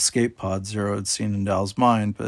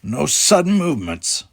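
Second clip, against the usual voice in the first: loud, raised warning; a raised, commanding roar; 5 semitones higher, 6 dB louder than usual. A narrator's reading. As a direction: bark the warning at them. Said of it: "Tegras roared".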